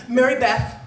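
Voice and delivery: confronting demand. Retold or imitated. Confronting Mary Beth loudly on the bleachers. Confronting the girl who laughed.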